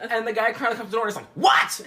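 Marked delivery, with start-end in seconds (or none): 1.4-1.8 loud, startled comic shout; hammed-up shout; mock yell. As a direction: yell it like answering a pounded door. Man answering the pounded door.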